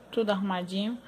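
usual speaking voice

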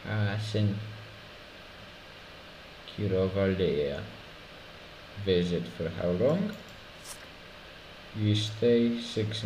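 mock Polish inspector, taunting; Polish accent. Inspector taunting a denied mother, mock Polish accent. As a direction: toy with the traveler in a stiff Polish accent. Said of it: "I can do a Polish accent".

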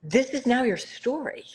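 whispered, slowing and fading at the end; hushed whisper. Retold or imitated. Quoting her mother's last words to the host, whispered. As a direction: breathe it out like a last wish. Mother's dying wish, quoted.

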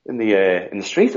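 high, puzzled what-is-going-on; high incredulous questioning; wondering why people scream in the street; baffled. Retold or imitated. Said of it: "I'm like".

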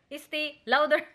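"Estee Lauder" said through a laugh with a rising end; laughing at the name. Shown as a demonstration. Mom repeats the brand name to husband, laughing. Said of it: "How to pronounce it?".

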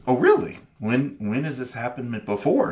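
God replying. Retold or imitated. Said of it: "God just says".

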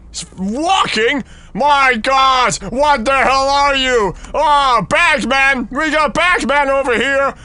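high, drawn-out exclamations of alarm; alarmed disbelief. Real, not acted. Player fleeing the Bagman who only walks, alarmed high exclamations. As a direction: call out in incredulous panic. Player chased by walking monster.

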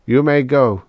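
high, even-toned robot reply; mildly submissive formal pronouncement. A narrator's reading. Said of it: "said seventy-six submissively".

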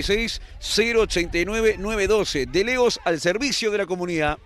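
upbeat radio commercial read. Acted. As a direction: sell it like a sponsor spot. Commentator reads sponsor ad.

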